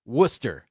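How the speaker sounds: WORCESTER as WUSS-ter; correct pronunciation. Shown as a demonstration. Host spelling out the first part, WORCESTER said WUSS-ter. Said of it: "Worcester is pronounced".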